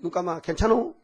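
softly voiced reassurance, imitating God; forgiving God. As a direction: hush it gently, as if letting a wrong pass. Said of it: "하나님, 그냥". (하나님이 부드럽게 달래듯 작은 목소리로)

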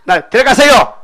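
hammed-up Jonah begging to be taken; mock fussing complaint. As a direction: moan long, then cry out in protest. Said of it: "막 야단치는 거예요".

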